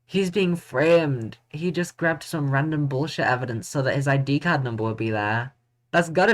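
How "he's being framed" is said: slow emphatic. Real, not acted. Drawn-out realization.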